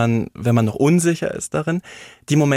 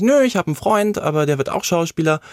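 higher-pitched, breezy correction; retold carefree reply; 5 semitones higher than usual. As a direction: answer lightly, pitch lifted, as if it's obvious. Acts own carefree answer to director. (nachgespielte unbekümmerte Antwort, hohe Stimme)

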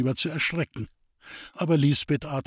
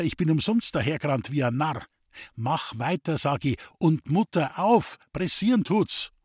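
angry command; 3 semitones higher than usual. Acted. Roman angrily commands Lisbeth.

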